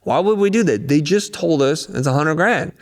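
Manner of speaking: a teammate protesting in shock; alarmed disbelief. Retold or imitated. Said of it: "I'm like".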